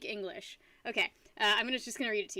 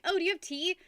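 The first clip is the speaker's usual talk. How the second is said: higher, prim English-gentleman voice; imitating a very proper English accent; mock refined Brit asking for tea; immaculate English; 6 semitones higher than usual. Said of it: "the most immaculate English I'd ever heard was like".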